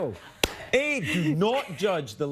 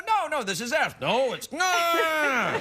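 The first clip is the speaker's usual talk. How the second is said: earthling reply; 11 semitones higher, much slower than usual. Pretend. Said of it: "You go".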